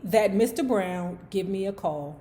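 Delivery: measured story narration; memoir read aloud. A narrator's reading. Book club host reading a memoir aloud, measured narration.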